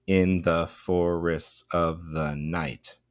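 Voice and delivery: slow, metered "In the forests of the night", ending on the beat; trochaic scansion. Shown as a demonstration. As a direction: lean on "In", "for-", "of", "night". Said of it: "three and a half trochees".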